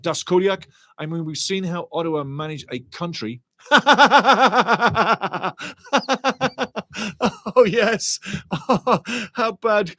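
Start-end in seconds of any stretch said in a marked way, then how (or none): 3.7-7.5 loud, high laugh out loud; real laughter at a cheeky chat message; burst of laughter. Real, not acted. 7.6-9.9 "Oh, yes" high and loud through laughter; real giggling reply to a viewer's joke; laughing. Real, not acted. Still laughing at chat.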